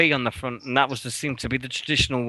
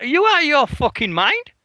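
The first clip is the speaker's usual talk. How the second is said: high and raised, mock outrage; incredulous tirade; 4 dB louder than usual. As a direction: act out losing it at the marketing woman. Retold blow-up at marketing woman.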